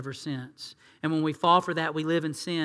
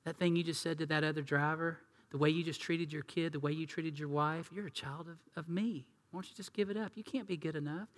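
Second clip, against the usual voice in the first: accusing whisper-soft voice; 9 dB quieter than usual. Retold or imitated. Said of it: "And God goes".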